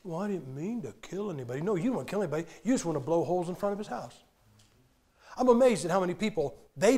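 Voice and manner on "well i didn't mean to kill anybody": mock excuse. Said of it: "I'll tell you what all of you would say".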